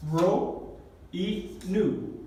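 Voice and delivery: ro and nu named slowly, each one drawn out; careful letter names. Shown as a demonstration. Teacher naming two difficult Greek letters, careful letter names. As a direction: say ro, pause, y nu, very slowly. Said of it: "hay dos letras difíciles".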